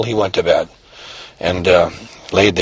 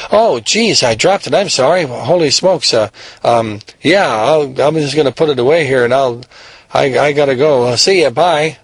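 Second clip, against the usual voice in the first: flustered apology; 4 semitones higher than usual. Acted. Nervous kid caught by owner.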